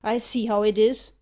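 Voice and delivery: trapped merchant turning on the others in fury; furious. Acted. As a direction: let the fear turn into fury. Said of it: "converted his terror into fury".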